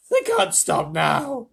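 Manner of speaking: high, loud, drawn-out urging; shouted insistence. A narrator's reading. James refusing to let spinners stop, urgent shout. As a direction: yell that stopping is impossible.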